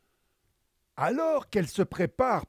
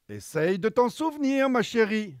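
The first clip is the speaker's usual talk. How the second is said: slight smile; 4 semitones higher than usual. Acted. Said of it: "avec un léger sourire".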